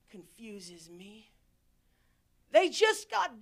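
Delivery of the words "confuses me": slow whispered aside. Real, not acted. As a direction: breathe it out, puzzled.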